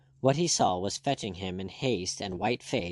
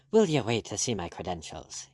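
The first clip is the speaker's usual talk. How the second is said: snapped. Acted. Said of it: "he snapped".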